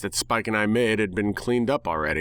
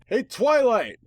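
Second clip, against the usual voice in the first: loud call, much higher; 13 semitones higher, 3 dB louder, slower than usual. Acted. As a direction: call across the house for her. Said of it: "I called out".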